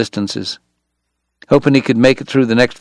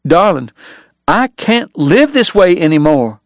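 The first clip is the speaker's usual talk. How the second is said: weary; 6 semitones higher than usual. Acted. Doc ending it with Kate.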